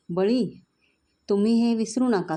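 high, sharp outburst; angry retort. Acted. Angry man threatening the other father. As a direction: hit back hard.

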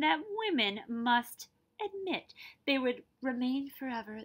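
clear, lively read-aloud narration; story narration. A narrator's reading. Teacher reading a picture book to her class, lively narration.

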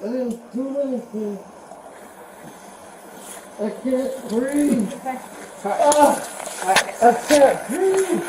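pleading, slow and short of breath, then breaking; nervous breakdown. Real, not acted. Man pinned down during arrest.

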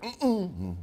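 high wordless "mm-mm"; hinting hum. Acted. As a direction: hum pointedly without asking. Acts wordless hinting at uncle.

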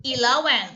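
eleven said clearly with stress on the second syllable; clear model word. Shown as a demonstration. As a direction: say eleven cleanly for the class. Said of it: "สิบเอ็ด คือ e อะไรคะ". (ออกเสียง eleven ชัดๆ)

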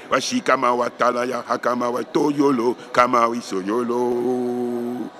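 loose babbled syllables; just say whatever syllables come; spoken tongues syllables. Shown as a demonstration. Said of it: "les syllabes qui vous viennent".

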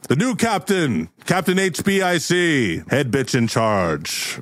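slow, drawn-out herald's proclamation; announcer introducing a champion, pitch falling at the end; grand announcement. Acted. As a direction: present the new leader with ceremony, stretching each title. Character announces the new captain.

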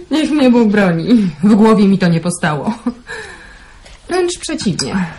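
amused, words bubbling with a laugh. Acted. Woman teasing the man that he's sentimental, laughing. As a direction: chuckle through the denial, teasing him.

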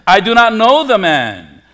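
mildly heated, emphatic denial; swearing denial. Retold or imitated. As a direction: swear it forcefully, as Peter disowning the man. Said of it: "invoke a curse on himself and swear".

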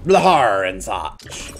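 slow drawn-out pirate growl. Acted. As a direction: stretch it like a pirate. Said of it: "my amazing pirate voice".

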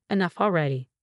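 retold shout, held back. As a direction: snap it at the crying baby, half-hearted yell.

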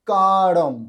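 "কারম" with a long loud first a, closing on m; final m sound. Shown as a demonstration. Teacher showing learners the anusvara, drawn-out careful pronunciation. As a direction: stretch the "কা" of "কারম" and end with closed lips on m. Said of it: "তাহলে সেটা ময়ের উচ্চারণ হবে".

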